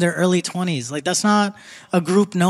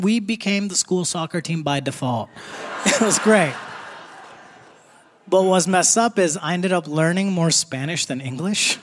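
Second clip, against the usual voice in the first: normal talking voice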